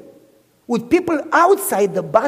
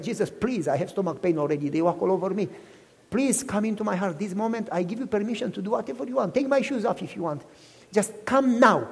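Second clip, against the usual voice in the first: retold prayer; 2 semitones lower, 8 dB quieter than usual. Young man asking Jesus for help on the train, soft prayer. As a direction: pray it softly, as if privately. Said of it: "As I was praying".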